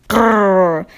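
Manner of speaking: growl. A narrator's reading. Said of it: "he growled".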